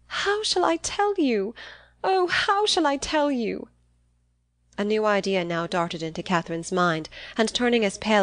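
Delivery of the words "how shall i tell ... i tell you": very high, slow, drawn-out distress; agitated anguish. A narrator's reading. Eleanor struggling to tell Catherine her errand, anguished. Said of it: "her manner greatly agitated".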